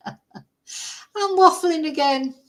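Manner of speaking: high, drawn-out mock wail; playful self-mockery. Vlogger catching herself waffling to viewers, playful self-mockery. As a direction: stretch it out high in comic exasperation. Mock lament at own rambling.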